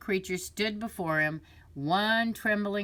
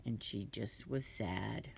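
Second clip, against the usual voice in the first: sad; 7 semitones lower, 11 dB quieter, slower than usual. Acted. Grieving mother owl.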